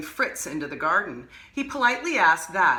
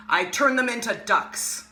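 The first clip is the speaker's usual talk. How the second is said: higher, louder booming bellow; 5 semitones higher, 3 dB louder than usual. Acted. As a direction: bellow the threat triumphantly. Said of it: "bellowed Gasazi".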